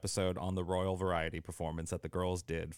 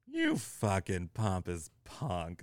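mock contempt; much slower than usual. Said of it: "I would just be like".

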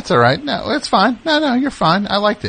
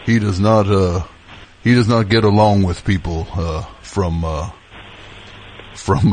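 put-on host the show like a folksy country boy; Southern country podcast host; down-home country host; 3 semitones lower than usual. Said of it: "down-home country guy to be in the mix".

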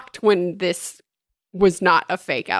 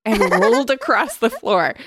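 gleeful horror; 6 semitones higher, 4 dB louder, slower than usual. A narrator's reading. Gross gory narration.

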